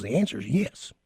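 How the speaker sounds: low, soft imitation of a southern accent. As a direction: quote a southern rock star, voice dropped. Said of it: "He's got that southern accent".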